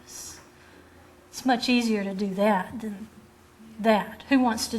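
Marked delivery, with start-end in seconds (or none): 0.0-0.4 sneering rebel. Retold or imitated. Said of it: "shook their fist in Moses' face and said".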